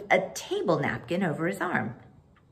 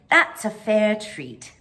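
admiring; 3 semitones higher, 5 dB louder, slower than usual. Acted. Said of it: "by the way she said it".

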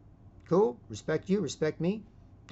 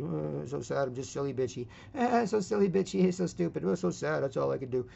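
mock sulky moan, trailing down; sullen, bitchy; 4 semitones higher than usual. Mocking men who only mope, in a sullen whine. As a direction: whine it as a mild parody. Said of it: "sullen, bitchy".

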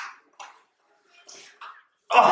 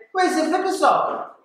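imitated questioning; 13 semitones higher than usual. Friends question diver.

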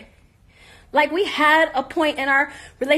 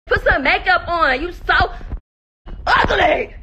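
laughing; 4 semitones higher, slower than usual. Real, not acted. Insulting while laughing.

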